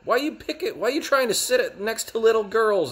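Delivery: high, loud hammed-up outrage; mock angry yell. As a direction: shriek at the creep like an angry mom. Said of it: "She goes".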